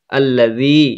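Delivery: আল্লাযী with the final "zee" held long; long-drawn vowel. Shown as a demonstration. Quran teacher showing the class, final vowel drawn out in আল্লাযী. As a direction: stretch the last vowel of আল্লাযী. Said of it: "টানতে হবে একটু".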